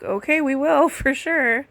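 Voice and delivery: retold giggly okay to the caller; nervous laughing promise. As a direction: agree quickly while laughing nervously.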